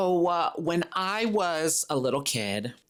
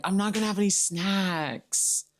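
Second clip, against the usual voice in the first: high, childish mock protest; imitated whiny kid; 7 semitones higher than usual. Kid denying snack plans to mom, mock whining. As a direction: insist like a whining little kid.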